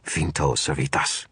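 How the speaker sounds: slow, dramatic spell incantation; a hint of a theatrical wizard casting; dramatic wizard hiss. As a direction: intone the spell slowly. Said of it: "hissed in my best dramatic voice".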